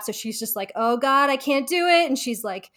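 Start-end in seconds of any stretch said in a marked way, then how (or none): 0.7-2.1 freaking out. Retold or imitated. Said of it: "Monica's freaking out".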